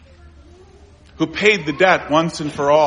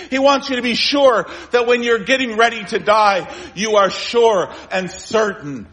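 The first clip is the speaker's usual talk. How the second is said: fervent preaching climax; 7 semitones higher than usual. Real, not acted.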